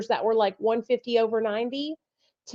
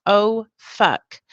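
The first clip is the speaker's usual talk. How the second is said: mock dismayed curse; 6 dB louder than usual. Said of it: "I'm going".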